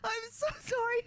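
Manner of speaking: after laughing hard. Real, not acted. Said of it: "crying laughing".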